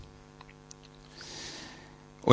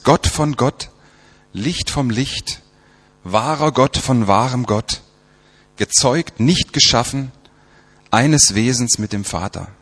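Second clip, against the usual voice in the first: slow, raised, measured recital; creed recitation; 2 semitones higher than usual. Acted. Preacher reciting the creed to the congregation, solemn recitation. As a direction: recite the creed with weight on each phrase.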